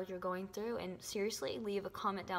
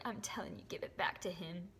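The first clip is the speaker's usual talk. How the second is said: emotional whisper; 2 semitones lower, 3 dB quieter than usual. Real, not acted. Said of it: "I'm so sorry that I got so emotional".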